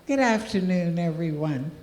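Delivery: a bit winded greeting; breathless after walking up; out of breath. Real, not acted. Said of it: "I have to catch my breath".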